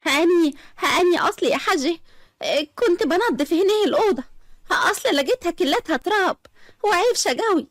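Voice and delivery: flustered. Acted. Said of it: "أسماء بارتباك".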